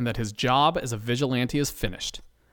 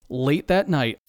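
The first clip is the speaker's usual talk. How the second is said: ordinary delivery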